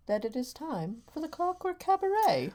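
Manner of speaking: high, grand cabaret announcer; theatrical show opening. Pretend. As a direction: announce the show with a swooping flourish.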